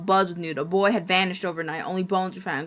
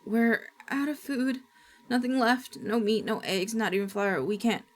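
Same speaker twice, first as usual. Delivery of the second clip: shaky frightened grandma; 4 semitones higher than usual. Acted. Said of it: "Grandma shakingly announced".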